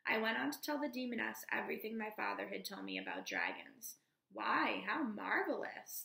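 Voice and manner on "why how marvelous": delighted exclamation, louder on "why"; light, pleased burst of wonder; a touch of excited wonder; exclaiming. Acted. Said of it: "the demoness exclaimed".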